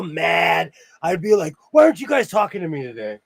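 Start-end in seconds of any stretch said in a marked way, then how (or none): 1.7-3.2 loud mock-mad baby whine; Lucille Ball tantrum. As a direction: throw a hammy sitcom tantrum, louder and higher. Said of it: "I would go like Lucille Ball".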